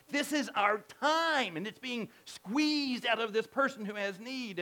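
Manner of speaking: mild mock lament, pressed and emphatic; moaning mom.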